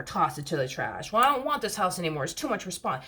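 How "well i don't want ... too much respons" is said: put-on higher, mildly whiny kid voice; imitated childish grumble, a touch high; talking like a kid. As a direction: complain like an overwhelmed child. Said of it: "I'm talking like a kid".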